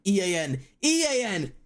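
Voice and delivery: teasing the chat's spelling, rising into laughter; mocking chat spelling. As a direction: parrot the chat in a silly sing-song. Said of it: "Everyone just going".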